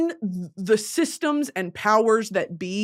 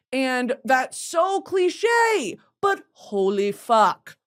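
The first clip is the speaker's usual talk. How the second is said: drawn-out outburst at the cliche; emphatic outcry; 4 semitones higher, much slower than usual. Real, not acted. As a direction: belt it out in disbelief.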